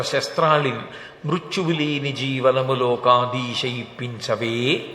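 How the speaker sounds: forceful metrical recital, drawn out at the end; verse recitation. Acted. Hiranyakashipu asking Brahma for deathlessness, recited as rhythmic verse. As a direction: recite the long list in strict rhythm, stretching the final syllables.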